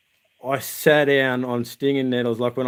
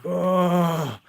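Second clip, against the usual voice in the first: re-enacted long, higher groan; pained groan; 4 semitones higher than usual. Backpack pressing on nettle stings, re-enacted pained groan. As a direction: groan as if in pain. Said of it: "And I'm like".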